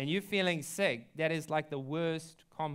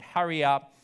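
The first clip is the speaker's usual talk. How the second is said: louder, curt order; the furious driver snapping louder at them; driver's angry bark; 6 dB louder than usual. Retold or imitated. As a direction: snap it at them. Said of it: "He was furious".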